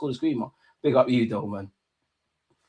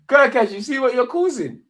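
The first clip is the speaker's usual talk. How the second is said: higher, louder, laughing through the words; 11 semitones higher, 5 dB louder than usual. Real, not acted. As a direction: tease him while cracking up. Laughing at chat feud.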